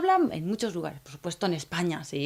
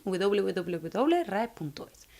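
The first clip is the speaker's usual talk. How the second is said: slow dictation; much slower than usual. Shown as a demonstration. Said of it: "podéis buscar rae".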